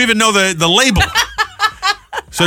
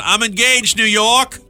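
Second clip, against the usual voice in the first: mock shout; 6 semitones higher, slower than usual. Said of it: "That wasn't real".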